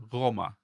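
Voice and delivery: "Roma" begun with a voiced velar gh, as in Greek; soft buzzed throat sound opening "Roma"; voiced velar fricative. Shown as a demonstration. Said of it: "G H is the voiced equivalent".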